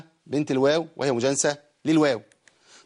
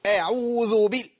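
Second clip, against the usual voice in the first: combative reciting, higher and slow; mock quarrelsome recitation; 6 semitones higher, slower than usual. Teacher mocking aggressive reciters, combative tone. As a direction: recite as if picking a fight. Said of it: "إيه دي خناقة؟".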